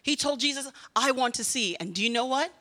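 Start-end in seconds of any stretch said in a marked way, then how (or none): 0.9-1.8 firm, bold declaration. Retold or imitated. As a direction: state it boldly, a touch of force. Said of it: "He said it boldly".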